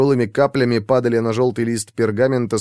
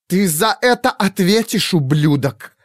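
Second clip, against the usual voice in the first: growled threat; 8 semitones higher than usual. A narrator's reading. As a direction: snarl the threat at him. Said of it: "прорычала Бернардин".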